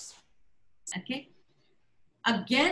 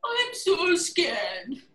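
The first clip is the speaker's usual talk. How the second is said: slow, high, frightened cry; scared; 4 semitones higher, much slower than usual. Shown as a demonstration. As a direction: squeal it out in mock terror. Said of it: "It's just the voice and the expression".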